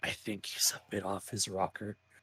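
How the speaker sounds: whispered softly. Mid-scene, leaning over to another character to remark on the praying man, whispering. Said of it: "just gonna like whisper".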